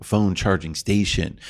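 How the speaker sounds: slow, drawn-out hipster drawl; bored ironic hipster. Real, not acted. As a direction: say it like a too-cool hipster. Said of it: "I like the hipster voice today".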